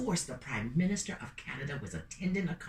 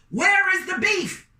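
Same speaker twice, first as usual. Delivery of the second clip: high, loud and slow; screaming headline; 14 semitones higher, 10 dB louder than usual. Acted. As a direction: shout it like a giant headline. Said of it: "headlines screamed across Canada".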